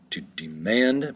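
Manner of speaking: "demand" slowly, de-MAND; stress on second syllable. Shown as a demonstration. Teacher showing learners the accent, "demand" slowly with second-syllable stress. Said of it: "accent is gonna be over the second syllable".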